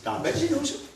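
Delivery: "Don Benzinuso" lifted high in a lilting tune; high lilting intonation on "Don Benzinuso"; same rising lilt. Shown as a demonstration. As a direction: let "Don Benzinuso" sing upward. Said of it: "they have that same lilt".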